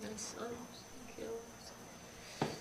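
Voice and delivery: slow, stretched-out lament; distraught cry. Retold or imitated. Mother running up the street after her son's death, slow lament. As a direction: drag it out like a mother gone mad with grief. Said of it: "just went mad".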